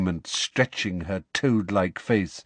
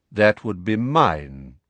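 deep voice; slower than usual. Acted. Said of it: "said a deep voice".

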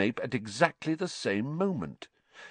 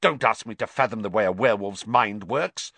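hissing; faster than usual. Acted. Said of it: "hissed Snape".

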